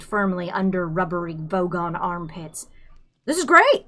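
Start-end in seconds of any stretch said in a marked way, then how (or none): 3.3-3.8 sputtered sarcasm. A narrator's reading.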